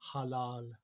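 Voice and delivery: halal with a short first A and long second A. Shown as a demonstration. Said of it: "the short A and the long A".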